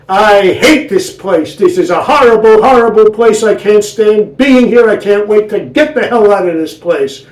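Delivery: put-on old wife kvetching to her husband about the hospital. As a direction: complain like the queen of the kvetchers. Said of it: "she was the queen of the kvetchers".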